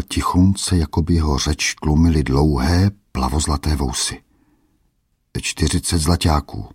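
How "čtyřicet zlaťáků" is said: a hint of timidity, "zlaťáků" falling away; lightly fearful old merchant; timid answer. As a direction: answer meekly, afraid to ask. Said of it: "odvětil bázlivě".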